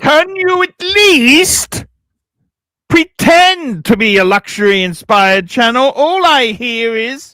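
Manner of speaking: loud posh attempt turning Australian; failed posh accent. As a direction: reach for posh and land on Aussie. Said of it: "he wound up on the cobber".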